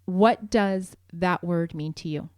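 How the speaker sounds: slow, measured, calm question. Shown as a demonstration. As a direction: ask it calmly, leaving room between words. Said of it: "and calmly, tone of voice does matter here".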